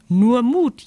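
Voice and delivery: joyful shout. Acted. Bumblebee cheers on her friend, high and loud. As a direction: whoop it with joy. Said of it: "jauchzt Bommel glücklich".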